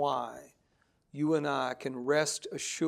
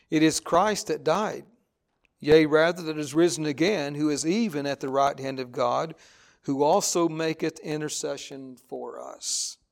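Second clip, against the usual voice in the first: scripture reading; 4 dB louder than usual. Acted. Reads scripture aloud to congregation.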